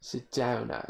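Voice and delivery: put-on British accent. Shown as a demonstration. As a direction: say it like a British lad. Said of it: "when I say it like that".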